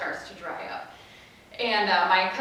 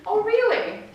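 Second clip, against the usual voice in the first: high sarcastic mock surprise; 12 semitones higher, 5 dB louder than usual. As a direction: toss it back, unconvinced. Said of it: "mom's sarcastic reply".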